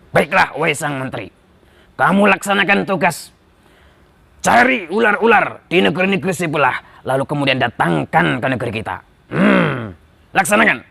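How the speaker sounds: lightly voiced king giving orders; commanding king. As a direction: hand down the task as a king.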